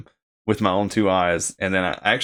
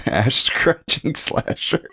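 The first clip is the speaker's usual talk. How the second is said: laughing; 4 semitones higher, slower than usual. Real, not acted. Cracking up at own joke.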